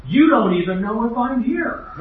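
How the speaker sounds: mock the professor's grand question; imitating the professor. A preacher mimics the hallway professor, lightly lofty. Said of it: "I heard him say".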